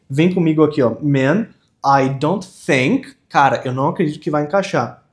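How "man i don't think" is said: slow model, "think" as "thenk"; teacher's slow "think" with eh-like i. Shown as a demonstration. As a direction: stretch it out and open the vowel of "think" toward ê. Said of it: "o I tem som de E".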